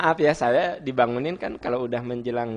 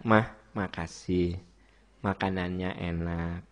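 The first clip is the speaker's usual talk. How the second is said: low, soft, drawn-out thank-you to a wife; gentle thanks; 7 semitones lower, 8 dB quieter than usual. Shown as a demonstration. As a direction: thank her tenderly, taking your time. Models a husband thanking his wife. (ucapan terima kasih yang lembut)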